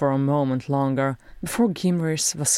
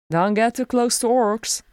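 succinct; 7 semitones higher, 4 dB louder than usual. A narrator's reading. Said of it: "Bofor said succinctly".

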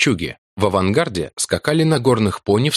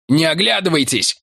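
breathless call; 8 semitones higher than usual. Acted. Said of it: "выдохнул Вентнер".

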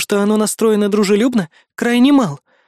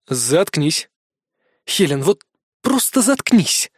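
growling; slower than usual. Acted. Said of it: "прорычал я".

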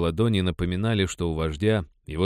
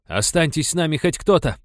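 pleading; 8 semitones higher, 4 dB louder than usual. Acted. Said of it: "взмолился Джамайка".

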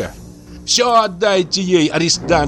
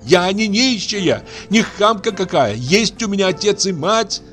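high, tearful angry tirade; furious crying rant; 12 semitones higher than usual. Acted. Aksinya shouting at the old man through tears, furious. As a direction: scream her grievance at the family. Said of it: "кричала она изо всей силы".

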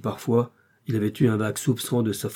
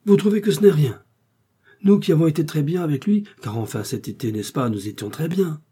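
much higher and louder, flustered indignation; agitated outburst; 6 semitones higher, 5 dB louder than usual. Acted. Husband panics to his calm wife, high and loud.

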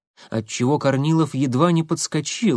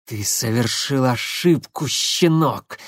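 шипит сквозь зубы; slower than usual. Acted. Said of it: "прошипел он сквозь зубы".

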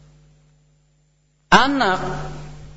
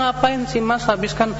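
reproachful wife; 6 semitones higher than usual. Retold or imitated. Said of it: "Saya bilang".

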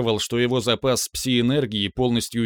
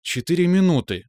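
grumbling; 6 semitones higher than usual. Acted. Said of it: "ворчливо ответила Карима".

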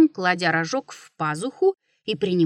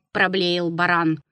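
ordinary delivery, nothing marked

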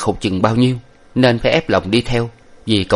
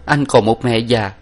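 higher, louder tearful farewell; crying farewell to a fallen comrade; weeping farewell; 7 semitones higher, 4 dB louder than usual. A narrator's reading. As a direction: mourn a loyal friend's death. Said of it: "vừa khóc vừa nói".

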